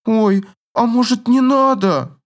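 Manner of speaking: high scared little plea; pleading girl. Acted. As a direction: beg him off. Girl fears spanking.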